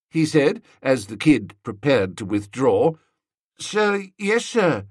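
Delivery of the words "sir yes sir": put-on high small boy voice; barked sir yes sir. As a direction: snap it back like a little cadet. Boy answers again.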